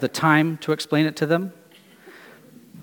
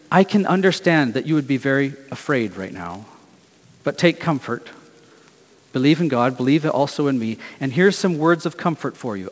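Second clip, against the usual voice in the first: gentle comfort; 3 semitones lower than usual. Retold or imitated. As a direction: comfort frightened friends, almost a whisper. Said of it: "He's whispering it, almost".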